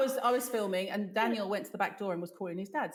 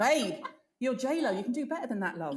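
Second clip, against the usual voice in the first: mock advice; 4 semitones higher, 3 dB louder than usual. Addresses J Lo mockingly.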